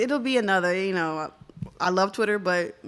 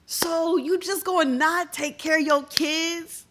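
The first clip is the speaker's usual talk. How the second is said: slow, higher disbelieving question; incredulous; 5 semitones higher, slower than usual. Real, not acted. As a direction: drag it out in disbelief. Incredulous question about the father.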